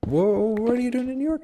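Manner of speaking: very high, acted amazement; overdone high-pitched reaction; flustered surprise. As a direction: squeak up high in mock surprise. Acting flustered surprise at meeting her.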